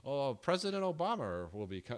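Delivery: badly faked British, an R ending Obama; British accent. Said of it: "I can't do the accent very well".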